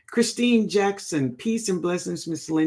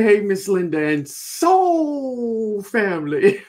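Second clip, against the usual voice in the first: slow, laughing put-on voice reading a viewer's greeting; host reads a viewer's comment aloud, laughing in a put-on voice; laughing read of chat; 4 semitones higher, 4 dB louder, slower than usual. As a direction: giggle through the viewer's hello in a borrowed voice. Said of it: "She said".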